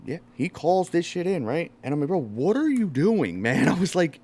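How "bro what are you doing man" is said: incredulous protest. Retold or imitated. Retold protest to the cop.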